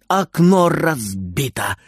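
ordinary delivery

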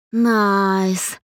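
a slow ironic drawl of approval; drawn-out sarcastic. A narrator's reading. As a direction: stretch the word out mockingly. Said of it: "протянула Даша". (протяжно, с сарказмом)

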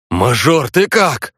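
rasping, pitch jumping up on the question; hoarse with emotion. A narrator's reading. Vasilich asks the beaten hero if he's alive, hoarse with emotion. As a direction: choke it out, moved and worried. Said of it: "хрипя от эмоций".

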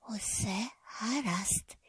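slow breathy whisper to herself; calming herself, barely voiced and slow; inner whisper. A narrator's reading. Penny silently reassuring herself, in a slow whisper. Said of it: "знову кажу подумки".

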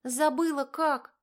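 high, loud and slowed panic; plaintive wail. A narrator's reading. Girl who forgot how to brake, high loud wail. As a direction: wail it helplessly. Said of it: "жалобно воскликнула она".

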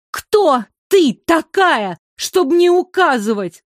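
high, loud and slow indignation; water princess flaring at her rival; indignant. A narrator's reading. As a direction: rise up in offended fury. The water princess confronts Майра.

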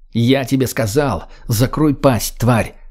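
slow, restrained anger; menacing rebuke. Acted. Older man to redhead before slapping her, slow menace. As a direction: press each word as a threat. Grok threatens her in quarrel.

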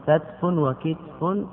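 "كتف وكتف" slowly as katfun wa-kitfun; "كتف وكتف" with sukun on each ta; two variants, katf, kitf. Shown as a demonstration. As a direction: draw out "كتف وكتف", first a, then i. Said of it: "جاء في مثل كتف".

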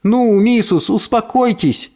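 high-pitched, soothing appeal; consoling. A narrator's reading. Maid comforts the upset mistress, consoling. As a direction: coax her to calm down. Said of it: "принялась утешать маму".

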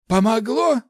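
high, loud mage voice; impatient high-voiced query; glum question. A narrator's reading. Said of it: "хмуро спросил Ларс".

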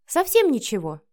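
pointedly sarcastic; snide. A narrator's reading. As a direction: rub it in with the question. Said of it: "съязвила Вика".

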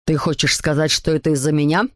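low, indignant dad question; father's mild shout. A narrator's reading. Papa disputes the blame with mama, low indignant voice. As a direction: challenge as mildly offended papa. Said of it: "закричал папа".

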